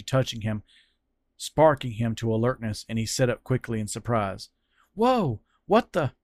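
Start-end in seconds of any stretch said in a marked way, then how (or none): 4.9-6.1 sudden high startled yelp; startled cry. Acted. Fran jolted awake by the touch, startled yelp. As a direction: jolt up in alarm.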